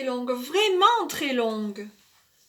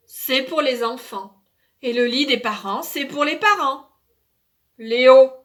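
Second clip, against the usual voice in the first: stern parent; 6 dB louder than usual. Acted. Parents fed up scold child.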